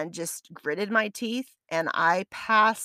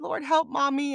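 put-on child praying; 5 semitones higher than usual. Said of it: "praying over the phone".

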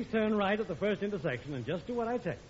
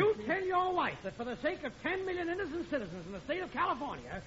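stern pronouncement; 5 semitones higher than usual. Acted. Examiner's final scolding.

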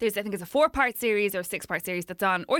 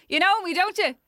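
put-on excited kid voice; 9 semitones higher, 3 dB louder than usual. Kid actor quoted from car.

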